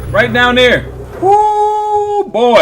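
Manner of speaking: high, loud exclamations with a whoop; startled excitement. Real, not acted. Reactor pointing out the figure down there, startled excitement. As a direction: whoop loudly at the shock of it.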